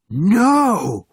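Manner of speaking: loud, high roar of shock. A narrator's reading. Sergeant seeing a man he thought dead, shocked roar. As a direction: roar it out in disbelief. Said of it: "roared the sergeant".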